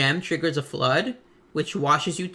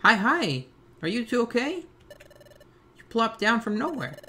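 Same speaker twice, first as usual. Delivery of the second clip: lightly voiced, higher startled villager; concerned bystander; 7 semitones higher than usual. Villager to two fallen strangers, lightly voiced concern. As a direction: check on them in a slightly higher voice.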